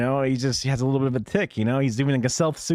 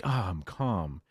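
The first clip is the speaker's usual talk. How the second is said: mock calm informant; 5 semitones lower, 8 dB quieter, slower than usual. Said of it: "you got any sports teams you like?".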